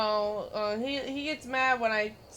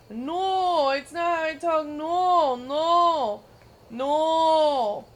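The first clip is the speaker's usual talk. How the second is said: higher and louder, insisting "no" over and over; hammed-up angry friend refusing; mock furious denial; 5 semitones higher, 8 dB louder, much slower than usual. Friend denies his accent, a mock furious outburst. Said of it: "he gets furious every single time".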